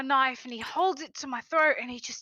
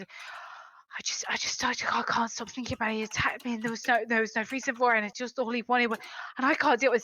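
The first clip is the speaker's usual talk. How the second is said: agitated dwarf tumbling over his words; anxious, run-on complaint; rambling. Acted. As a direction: ramble on, restarting as you go. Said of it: "the dwarf starts rambling".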